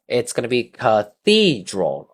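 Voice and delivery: "cathedral" with stress on the middle "the"; stress on second syllable. Shown as a demonstration. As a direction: lift the voice on the "the" of "cathedral". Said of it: "the stress is on number two".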